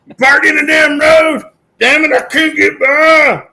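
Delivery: high, loud, furious New York yell; New York accent. Retold or imitated. Man yelling at a school bus driver, in a loud New York accent. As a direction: scream it like an angry New Yorker. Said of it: "that was a terrible impression of this New Yorker".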